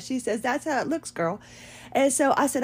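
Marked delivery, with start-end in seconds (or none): 0.4-1.4 softer sassy saleswoman voice; lightly mocked, self-assured verdict; imitating Vi. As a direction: mimic her knowing girl talk, dropping at the end. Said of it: "she did talk like that".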